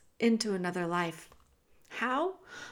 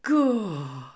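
shout; 3 semitones lower, 4 dB louder than usual. Acted. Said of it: "shouted Meg".

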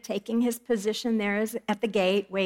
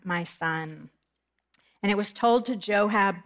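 measured, solemn Bible reading; scripture reading. Acted. Preacher reading scripture aloud to the congregation, solemn. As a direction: read the passage with weight.

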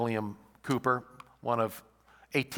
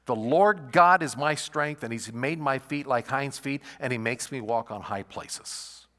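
building scripture reading; 2 semitones higher, 6 dB louder than usual. Shown as a demonstration. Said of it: "But then he said this".

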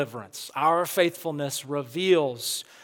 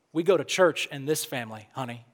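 put-on a mother's gentle Southern accent, voice lower and dropping away on honey; sweet Southern accent; 5 semitones lower, 4 dB quieter, faster than usual. Preacher imitating his mother's sweet Southern accent again to stress the point. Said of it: "That's my mom's sweet Southern accent".

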